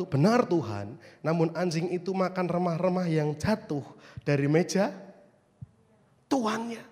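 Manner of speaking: deliberate reading that holds back "tuannya" and raises it; stress on tuannya. Shown as a demonstration. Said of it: "Kenapa saya ulang-ulang kata meja tuannya".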